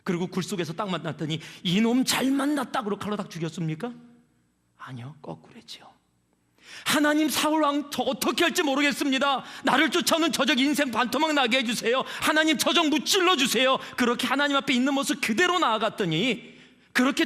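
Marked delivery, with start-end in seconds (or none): 1.6-2.8 gloating threat. Retold or imitated. David voiced as vengeful. 6.8-13.8 crying out to God. Acted. Enacted desperate prayer.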